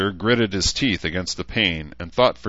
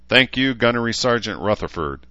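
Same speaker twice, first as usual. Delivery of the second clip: formal acknowledgement; 5 semitones higher, 3 dB louder than usual. Acted. Mayor's formal ceremonial reply.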